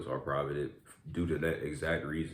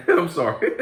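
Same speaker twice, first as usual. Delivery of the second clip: sorry through a laugh; laughing apology; 12 semitones higher, 12 dB louder than usual. Real, not acted.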